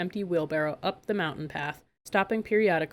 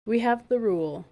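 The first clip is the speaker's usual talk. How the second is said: a smug purr, louder; 5 semitones higher, 5 dB louder than usual. A narrator's reading. Queen telling Megan her rule, smug purr. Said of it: "the queen purred".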